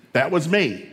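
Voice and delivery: playful parental rant, building; building mock indignation. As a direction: rattle off favours with rising force. Mock reminder to kids, building.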